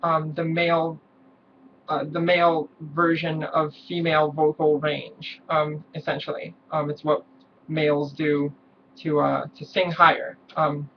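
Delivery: sit low in your guy voice; male voice. Shown as a demonstration. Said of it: "so basically you start with this".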